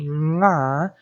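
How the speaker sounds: nga nasaal uitgesproken; nasal nga. Shown as a demonstration. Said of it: "Very nasal".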